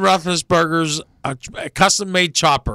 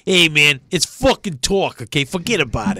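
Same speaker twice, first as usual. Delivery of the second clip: put-on New York accent. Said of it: "New York accent".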